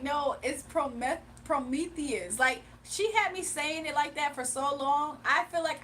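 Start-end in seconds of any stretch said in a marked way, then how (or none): 0.0-2.4 "Prometheus" spelled out slowly; slowly, stressing the name. Retold or imitated. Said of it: "I was like".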